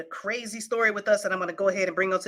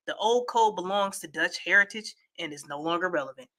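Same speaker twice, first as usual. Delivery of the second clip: steady, measured read-aloud; newsreader-style delivery; news article read; 2 semitones higher than usual. Acted. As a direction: read the report out evenly.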